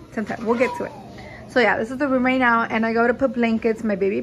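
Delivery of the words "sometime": sometime repeated much softer, doubtful; skeptical trailing echo. Real, not acted. Mom echoes doubt about husband fixing it, sometime much softer. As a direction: mutter sometime under your breath doubtfully.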